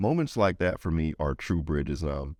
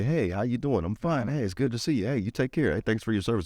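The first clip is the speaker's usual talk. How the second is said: casual greeting; 6 semitones higher than usual. Retold or imitated. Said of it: "typically you say".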